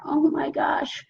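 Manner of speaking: whispered in slow disbelief; hushed, amazed "Oh my gosh"; awed whisper. Pretend. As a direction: breathe it out like you can't believe it. Imagining being debt free.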